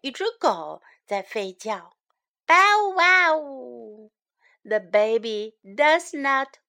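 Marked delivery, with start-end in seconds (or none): 2.5-4.1 drawn-out, playful dog bark. Acted. Storyteller acts the dog that barks near baby, playful bark. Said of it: "A dog barks".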